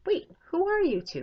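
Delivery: high, loud suspicious challenge; grumpy dwarf. Acted. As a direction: demand it like a cranky little dwarf. Grumpiest dwarf questions strangers.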